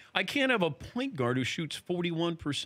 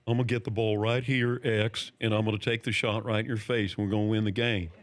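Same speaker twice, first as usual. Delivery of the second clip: light impression, slightly lowered voice; a lower, matter-of-fact trash-talker's voice; Larry Bird; 4 semitones lower than usual. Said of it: "Is that your Larry Bird impression?".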